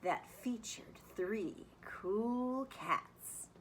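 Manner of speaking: lively, sing-song picture book reading; reading to children. A narrator's reading. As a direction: read it like story time for kids. Teacher reads picture book aloud.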